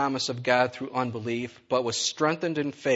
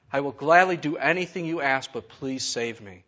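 yelled plea; 4 dB louder than usual. Acted. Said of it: "yelled back".

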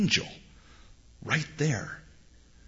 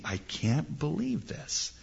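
exasperated disbelief; 3 semitones higher, 7 dB quieter, slower than usual. Acted. God exasperated in the story.

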